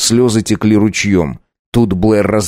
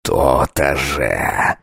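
low, very slow, smug; grim satisfaction; 8 semitones lower, 4 dB quieter, much slower than usual. Acted. Count satisfied with the name, low and slow. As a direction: drawl out the triumph.

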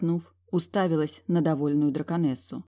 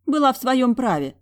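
defiant; 8 semitones higher, 6 dB louder than usual. A narrator's reading. Heroine defends herself.

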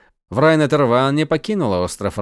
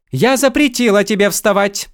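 loud, much higher scolding; sharp rebuke; 9 semitones higher, 5 dB louder than usual. Acted. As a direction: cut him off sharply. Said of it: "резко оборвала его Врай".

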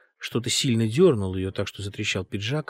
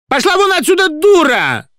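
high screaming order to get out; furious shriek; 14 dB louder than usual. A narrator's reading. Singer screaming at the weeping director, enraged. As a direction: scream her out of the room.

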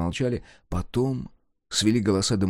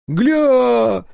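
much higher, louder gleeful shout; delighted yell; 14 semitones higher, 7 dB louder than usual. Acted. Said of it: "в восторге завопил Егор".

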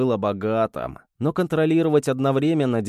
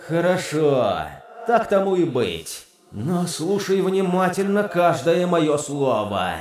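demon voice; 4 semitones higher than usual. Acted. Demon voice agrees reluctantly.

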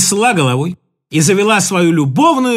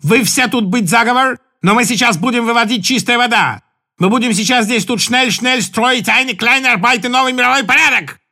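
put-on broken Russian in a German accent; 3 semitones higher than usual. Stefanie announcing a new order in a German accent. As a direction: play a German soldier giving orders. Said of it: "Стефани на чистейшем немецком".

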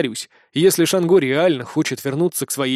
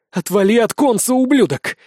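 loud, higher furious yell; thunderous shout; 6 semitones higher, 5 dB louder than usual. A narrator's reading. Shango orders her brother to back off, furious shout. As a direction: bellow it at the brother. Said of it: "громогласно воскликнула Шанго".

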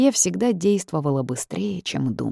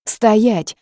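loud, higher barked command; barked order; 6 semitones higher, 7 dB louder than usual. A narrator's reading. Heroine stops the retreating spirit, barked command. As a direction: bark it to freeze him. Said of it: "рявкнула я снова".

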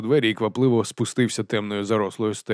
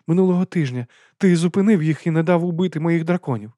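high, hearty aristocratic lady; lady's voice; 7 semitones higher, 4 dB louder than usual. A narrator's reading. Lady explains dragon stomachs to Vimes. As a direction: lift the voice for the lady.

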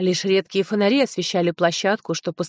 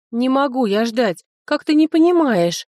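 angry; 5 semitones higher, 4 dB louder than usual. Acted. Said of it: "Рассердилась я на подругу".

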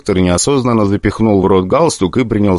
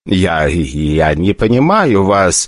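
frightened; much slower than usual. Acted. Frightened director on phone.

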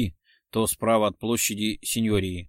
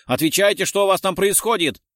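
loud, high urgent order; commanding; 8 semitones higher, 6 dB louder than usual. A narrator's reading. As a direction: demand an answer from a silent radio. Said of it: "приказал кто-то из старших офицеров". (громкий, требовательный приказ)

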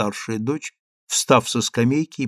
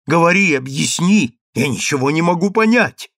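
demanding; 5 semitones higher, 5 dB louder than usual. Acted. Mother demands explanation.

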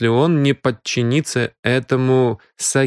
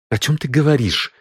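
angry; 4 semitones higher than usual. Acted. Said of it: "сердито спросил сыщик".

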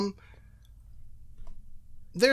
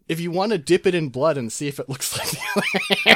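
laughing; 3 semitones higher, 4 dB louder than usual. Real, not acted. Laughing while explaining.

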